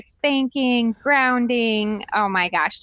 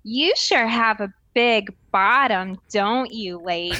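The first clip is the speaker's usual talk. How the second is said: put-on slow, blunt little-kid voice; a toddler speaking to a stranger; innocent toddler; slower than usual. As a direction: say it with total innocence. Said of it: "And Savannah says".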